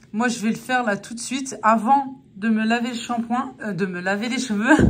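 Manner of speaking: talking with numb lips after the dentist. Real, not acted. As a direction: lips still numb, words a bit slurred. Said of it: "je reviens de chez le dentiste". (lèvres engourdies après le dentiste)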